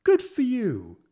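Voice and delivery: hammed-up pub cheerleader; mock hype. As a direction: cheer a mate into going out drinking. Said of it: "I was like".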